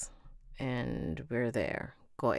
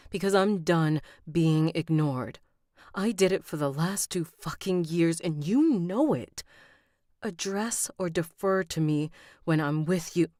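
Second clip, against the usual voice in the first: angry; 4 semitones higher, 5 dB louder than usual. Acted. Heroine confronts King at dinner.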